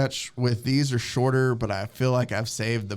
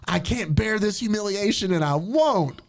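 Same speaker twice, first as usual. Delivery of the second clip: mock indignant heroine; 6 semitones higher than usual. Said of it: "And so she storms out".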